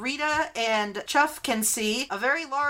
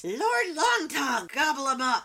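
goblin woman commanding; 3 semitones higher than usual. Acted. Vorka orders her frog to attack, villainous shout. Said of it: "she says".

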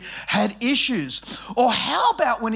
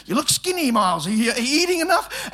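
fussing mother; 5 semitones higher, faster than usual. Retold or imitated. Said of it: "mothers especially".

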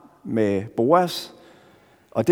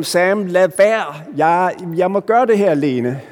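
raised, urgent call across the water; retold shout; 4 semitones higher, 4 dB louder than usual. Frodo calling to Sam at the river, raised mock shout. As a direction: call out to stop a friend, half-acted. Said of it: "Frodo råber til ham".

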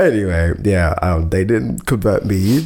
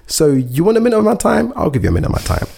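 sassy quote; 9 semitones higher, much faster than usual. Retold or imitated. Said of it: "I'm like".

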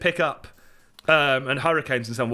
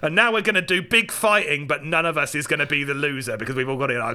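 Jason Statham; 4 semitones lower than usual. Retold or imitated. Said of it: "And Jason Statham's like".

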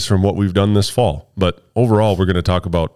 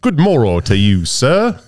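put-on old-fashioned British greeting, pitched up at the end; mock British accent; 4 semitones higher, slower than usual. Shown as a demonstration. Host interrupting co-host's lunch story, mock British accent. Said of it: "my British accent".

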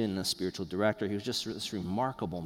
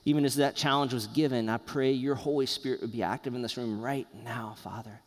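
pastoral prayer. Acted. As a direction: pray gently for the congregation. Leads a closing prayer.

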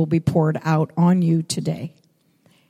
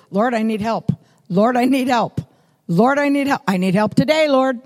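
each "Lord, I need help" climbing higher and more urgent; pleading prayer; 3 semitones higher than usual. Retold or imitated. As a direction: pray it over and over, building in pitch and urgency. Woman praying over and over.

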